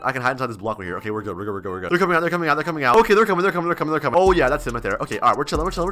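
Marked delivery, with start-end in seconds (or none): 0.0-1.9 softer, lower, keeping it down; hushed hiding. Real, not acted. Hiding inside a block from the girls, hushed. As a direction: murmur so nobody finds you.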